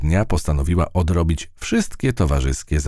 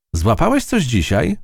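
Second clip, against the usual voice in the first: mouse admiring; 11 semitones higher than usual. A narrator's reading. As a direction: marvel at the web. Matylda asks spider.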